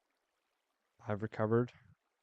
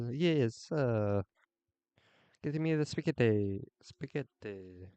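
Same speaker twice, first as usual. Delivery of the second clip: playful mock Italian accent, louder, "spaghetti" as "spiketti"; hammed-up Italian chef ordering spaghetti; imitating Italian chef; 3 dB louder, slower than usual. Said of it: "he has a very thick Italian accent".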